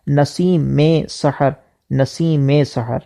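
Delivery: نسیم linked with a zer, "naseem-e sahar"; slow on "نسیم میں سحر", sound the kasra; correct pronunciation. Shown as a demonstration. Teacher showing the izafat to students, careful pronunciation. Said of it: "میم کے نیچے زیر".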